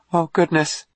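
very high, awed exclamation; amazed. Acted. Dawn learns he is from Mars, amazed. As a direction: squeak it in amazement.

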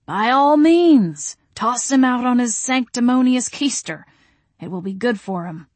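grandly permissive gentleman; Mister Wainwright, approving. A narrator's reading. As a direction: give hearty, lilting consent. Figure of Mister Wainwright in narrated dialogue.

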